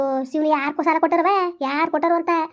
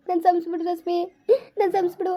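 tearful plea. Acted. Mother begs forgiveness crying.

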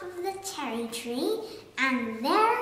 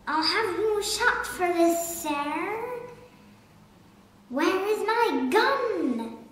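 angry threat; 3 semitones higher, 3 dB louder than usual. Acted. Angry Duke threatens the bird.

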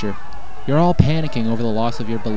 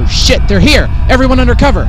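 loud, higher call to take cover; alarmed shout; 9 semitones higher, 8 dB louder than usual. Acted. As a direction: bark the order over the noise. Leader alerts everyone to the attack.

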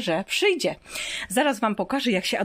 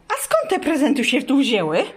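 pet-talk full of delight; excited; 6 semitones higher than usual. Real, not acted. Mother asking the dog Pianka about Santa, excited.

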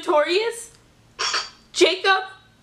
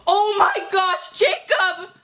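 breathless hammed-up squeal; crazy fangirl; 3 semitones higher, slower than usual. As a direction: gasp it out like a starstruck fan. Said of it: "pretending like I'm some crazy fangirl".

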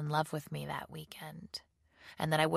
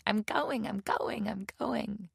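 high, elated calling, not full volume; a contained shout of happy surprise; excited cry; 7 semitones higher, slower than usual. A narrator's reading. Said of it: "ran into the house shouting".

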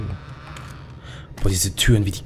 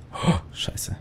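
whispered scared curse; whispering; 8 dB quieter than usual. Real, not acted. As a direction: breathe it out in fear. Scared whisper in dark room.

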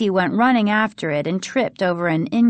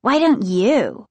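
slow, higher-pitched comeback; shot-back retort; 4 semitones higher, 4 dB louder than usual. A narrator's reading. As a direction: throw the taunt back, drawn out. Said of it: "he predictably shot back".

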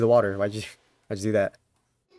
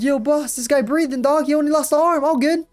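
mock casual voice; 12 semitones higher than usual. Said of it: "It's like".

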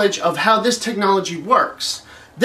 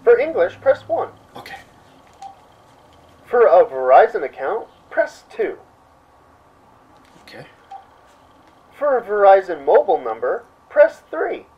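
mock automated menu; 4 semitones lower than usual. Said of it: "It's kinda like this".

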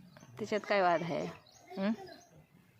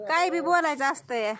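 coaxing call; 6 semitones higher, 4 dB louder than usual. Real, not acted. Coaxing shy villager.

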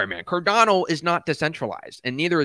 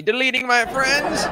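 laughing; 5 semitones higher than usual. Real, not acted. Laughing at chat joke.

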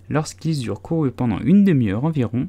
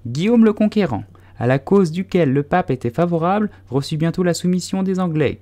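a squeaky mouse lecturing the wet animals; pompous mouse lecturing; 7 semitones higher than usual. A narrator's reading. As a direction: recite dates like a stuffy schoolmaster.

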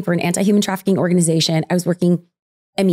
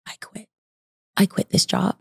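despairing. Retold or imitated. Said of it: "I look at my husband and I'm like".

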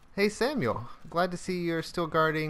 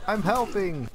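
mildly raised, higher mock cheer; a light play-shout; 5 semitones higher, 3 dB louder than usual. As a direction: pretend to shout it proudly. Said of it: "you get to shout".

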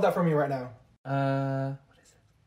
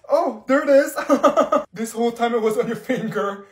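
laughing; 3 semitones higher, 4 dB louder than usual. Acted. Ring found on finger.

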